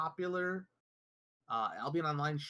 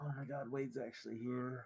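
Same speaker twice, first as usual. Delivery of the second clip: Derek; 4 semitones lower, 10 dB quieter than usual. Retold or imitated. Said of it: "What does Derek think when".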